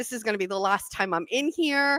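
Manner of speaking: put-on crying voice. Retelling a last visit before the place closed: imitating own past crying. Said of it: "I start crying like a weirdo".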